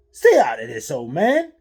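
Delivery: loud, rising angry yell; angry shout. A narrator's reading. Thug yelling at the stranger, angry loud shout. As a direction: warn him off hard. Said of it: "said Raikou".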